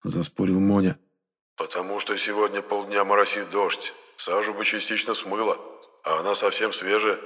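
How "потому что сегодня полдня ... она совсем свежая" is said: a hint of a quiet, restrained character; subdued, lightly acted explanation; lightly voiced calm reasoner. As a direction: explain it softly and evenly. Voices Enoch, against louder dialogue.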